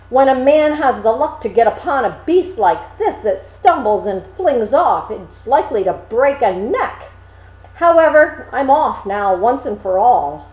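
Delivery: a thrown rider complaining to the shepherd; mildly huffy simple lad; vexed Hans. Acted.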